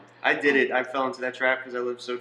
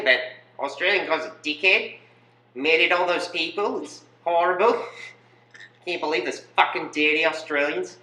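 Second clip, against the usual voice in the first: high-pitched mock Kiwi rant; Kiwi accent; 4 semitones higher than usual. Kiwi Red cursing dirty Australians, high mock Kiwi accent. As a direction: rail in a put-on New Zealand accent. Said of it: "Kiwi Russian".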